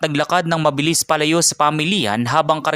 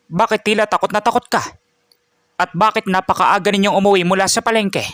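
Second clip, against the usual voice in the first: raised, higher-pitched worried questions; concerned questioning; 5 semitones higher than usual. Acted. Grandfather asking Martin why he is home early, concerned. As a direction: ask with mounting concern, pitch up.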